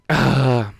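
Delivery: heavy exasperated sigh; loud sigh. Real, not acted. Reader sighing loudly at the plot, exasperated. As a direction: let out a big fed-up sigh.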